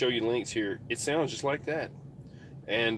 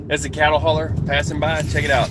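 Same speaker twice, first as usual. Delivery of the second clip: excited; 2 semitones higher, 8 dB louder than usual. Real, not acted. Excited about passing truck.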